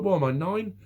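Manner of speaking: mock-indignant outburst. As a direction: scoff at being treated like a child. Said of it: "And I was like".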